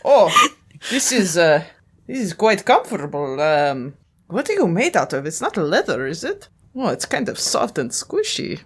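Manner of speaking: pleased low voice. Acted. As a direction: settle in comfortably on the saddle. Ezio rides Blasto.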